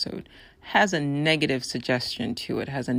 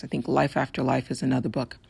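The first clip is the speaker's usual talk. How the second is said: rough, raspy throat. Real, not acted. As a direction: talk through a scratchy, raspy voice. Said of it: "listen to my raspy voice".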